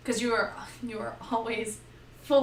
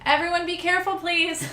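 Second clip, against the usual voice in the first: higher, louder, fussing over everyone; worried healer; 7 semitones higher, 5 dB louder than usual. Retold or imitated. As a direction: fret like a mother hen. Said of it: "I'm like".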